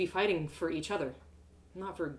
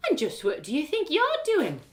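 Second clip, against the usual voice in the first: higher, suspicious mother's challenge; stern Scottish mum; 9 semitones higher, 4 dB louder than usual. Acted. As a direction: catch the daughter red-handed. Mum catches her packing.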